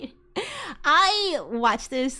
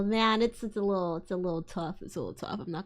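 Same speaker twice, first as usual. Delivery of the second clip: fading off; 6 semitones lower, 7 dB quieter, faster than usual. Real, not acted. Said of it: "fading admission".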